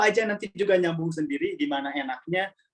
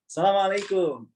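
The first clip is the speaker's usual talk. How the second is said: Assalamualaikum said higher and firm, each syllable pushed out; firm Arab greeting; 6 semitones higher than usual. Shown as a demonstration. Teacher showing students the right Arab tone: firm and forceful. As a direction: hit Assalamualaikum hard, like a Saudi local. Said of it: "keras aja".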